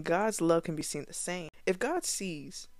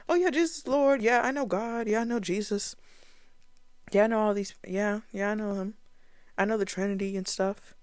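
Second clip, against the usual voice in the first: casual fake believer; 4 semitones higher, faster than usual. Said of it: "You confess".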